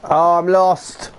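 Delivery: slow, dragged-out lament at being lost; slow groan. Real, not acted. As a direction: groan it out slowly. Lost in game, frustrated.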